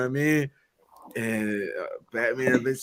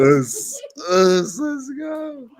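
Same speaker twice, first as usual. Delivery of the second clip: excited shout; 12 semitones higher, 5 dB louder, much slower than usual. Retold or imitated. Penguin gloating in chase.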